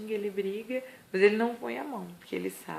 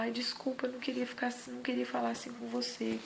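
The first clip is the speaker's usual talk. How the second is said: apologetic soft; 4 semitones higher than usual. Retold or imitated. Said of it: "Dá vontade da gente pegar e falar".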